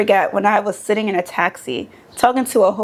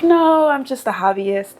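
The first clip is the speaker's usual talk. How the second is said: acted modest denial; 5 semitones higher, slower than usual. Acts out own modest denial.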